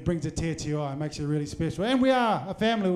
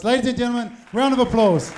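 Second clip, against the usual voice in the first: loud MC call; 4 semitones higher, 8 dB louder than usual. Real, not acted. MC asks the crowd for applause.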